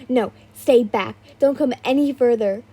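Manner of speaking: loud panicked warning; frightened shout. Acted. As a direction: shout to keep them away. Heroine fending off intruders.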